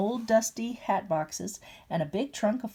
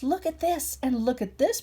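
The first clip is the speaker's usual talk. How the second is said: shouting; 5 semitones higher than usual. Acted. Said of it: "Bert shouted".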